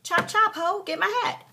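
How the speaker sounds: high, loud sassy telling-off; imagined rude outburst. Acted. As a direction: order her around in a mock tirade. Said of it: "normally I'd be like".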